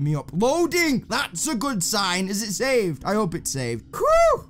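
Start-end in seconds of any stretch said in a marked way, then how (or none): 4.0-4.5 relieved whew. Real, not acted. Relief after escaping.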